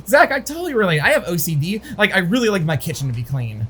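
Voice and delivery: lightly voiced chirpy coworker; mildly mocking imitation, starting high; relating coworker. Coworker claiming to relate to him, lightly mocked eager tone. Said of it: "she says".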